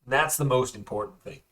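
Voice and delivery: eager prisoner bluffing; eager Werner. Acted. Werner bluffing to the prisoner who questions him. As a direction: talk fast to be believed.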